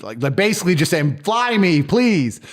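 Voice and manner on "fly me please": high mock begging voice; imitating a girl begging for a flight; pleading girl. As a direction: whine it like a girl angling for a free trip. Girls asking to be flown.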